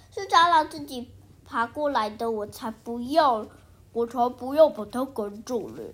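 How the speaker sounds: loud, defiant refusal, like a bratty classmate; defiant baboon. Acted. The baboon classmate refuses to shoo the cockroach, loud and defiant. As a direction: dig in your heels and refuse, loudly.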